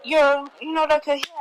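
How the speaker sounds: high-pitched feigned surprise; acted shock. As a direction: pretend you only just noticed him. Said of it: "I act shocked".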